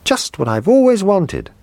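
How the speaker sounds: put-on high, delighted child cry; excited boy. Little boy sees his birthday presents, high and delighted. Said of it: "he cried".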